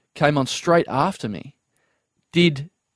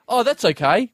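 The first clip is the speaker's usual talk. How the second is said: higher-pitched, obliging brush-off; automatic nice guy; 6 semitones higher than usual. Retold or imitated. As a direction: let it go politely on reflex. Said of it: "automatically try and be a nice guy".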